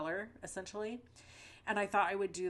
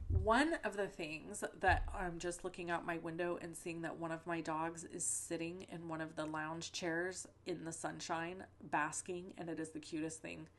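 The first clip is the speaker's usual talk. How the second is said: stuffy nose. Real, not acted. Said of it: "my voice is a little funny or I might sound a little stuffy".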